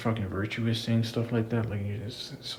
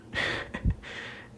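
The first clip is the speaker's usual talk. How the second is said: brief breathy snicker; short laugh; 5 dB quieter than usual. Real, not acted. Laughing at a wrestler's promo line, short snicker. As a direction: let out a short scoffing laugh.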